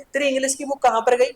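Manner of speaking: a hint of an angry mum asking; scolding mother. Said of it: "बोलती है ना".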